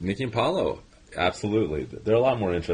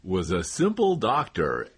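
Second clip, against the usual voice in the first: comedy trailer voice; 3 semitones higher than usual. Acted. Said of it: "I was doing the comedy trailer".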